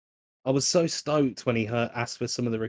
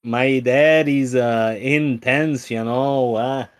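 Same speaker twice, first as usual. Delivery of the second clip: put-on Midwest accent; 6 dB louder, much slower than usual. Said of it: "Midwest accent".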